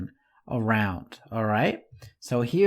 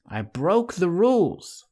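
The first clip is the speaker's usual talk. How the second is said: I broke the rules said higher, rules falling hard; raised voice, rules hit; 6 semitones higher than usual. Shown as a demonstration. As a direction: raise your voice at the end. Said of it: "someone is shouting".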